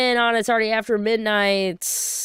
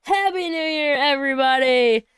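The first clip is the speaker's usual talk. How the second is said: cheering greeting; 4 semitones higher than usual. Real, not acted. Calling greeting to viewers.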